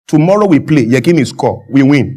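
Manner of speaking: lightly imitated foreign coach's broken English; terse coach talk, lightly mimicked; Clemens Westhoff. Coach telling the media about tomorrow's match, light impression. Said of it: "But how does he speak?".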